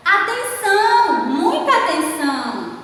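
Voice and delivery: high, loud "atenção", easing down on the repeat; exclaimed call for attention; exclamatory reading. Shown as a demonstration. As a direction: read it as an emphatic warning. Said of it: "Está expressando um sentimento, uma emoção".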